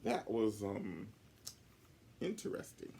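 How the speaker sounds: tactful teacher searching for a word; kindly masking disappointment; polite hesitation. Acted.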